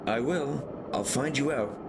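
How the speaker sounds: yelled threat. Acted. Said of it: "Even as I yelled".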